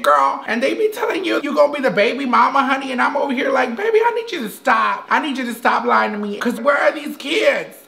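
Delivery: a hint of a feminine character voice, half-hearted; Mimi. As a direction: play a dramatic woman looking for love. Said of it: "my name is Mimi".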